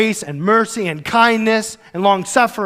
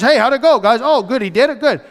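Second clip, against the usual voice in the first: eager texting; 4 semitones higher, 3 dB louder than usual. Retold or imitated. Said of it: "he gets to text the elders".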